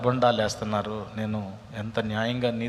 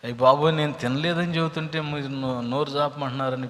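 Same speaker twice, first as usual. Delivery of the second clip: retold yelling; 3 semitones higher, 5 dB louder than usual. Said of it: "పెద్ద పెద్దగా కేకలేసి".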